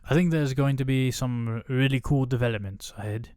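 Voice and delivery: put-on a rough, self-admittedly terrible British accent; Benedict Cumberbatch accent. Reading the actor's quote in a bad British accent. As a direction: put on a clumsy posh English accent. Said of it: "a Benedict Cumberbatch accent".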